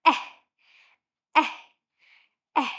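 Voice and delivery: Eh said as short open a, mouth wide, three times; short A sound. Shown as a demonstration. Teacher leading children through the apple sound, open short a. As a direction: drill Eh as the a in apple. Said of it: "open your mouth wide and say".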